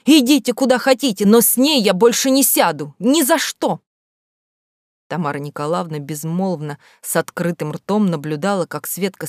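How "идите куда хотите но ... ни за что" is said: high, loud furious outburst; loud schoolgirl shout. Acted. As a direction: yell it as she storms off. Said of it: "крикнула".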